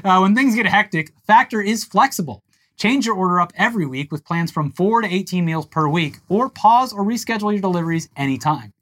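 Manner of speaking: steady sponsor read. Acted. Cohost takes his turn reading the Factor ad. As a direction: read the spot evenly.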